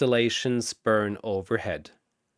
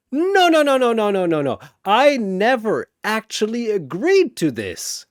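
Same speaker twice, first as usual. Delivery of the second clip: very high, loud, tumbling protest; frantic protest; 10 semitones higher, 6 dB louder than usual. Acted. Shazam protesting to Chen he never agreed, frantic. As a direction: wave it all off in a rush.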